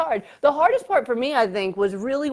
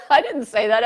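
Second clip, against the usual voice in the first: laughing protest; 6 dB louder than usual. Real, not acted. Laughing at salad story.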